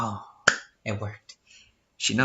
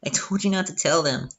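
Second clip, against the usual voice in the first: Sayori voice; 4 semitones higher than usual. Acted. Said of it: "See how easy that is?".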